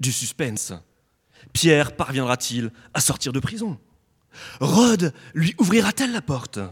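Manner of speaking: movie trailer narrator voice. Introducing the Acts 12 prison escape story, in a movie trailer voice. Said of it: "je vais prendre ma petite voix de bande-annonce".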